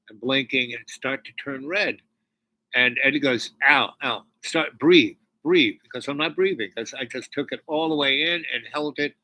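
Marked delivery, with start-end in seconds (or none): 3.7-5.7 louder, urgent "breathe, breathe"; urgent urging. Retold or imitated. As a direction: push him to breathe, louder. Eddie urging him to breathe.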